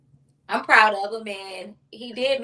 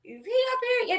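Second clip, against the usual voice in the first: whispered peek; 13 semitones higher, faster than usual. Retold or imitated.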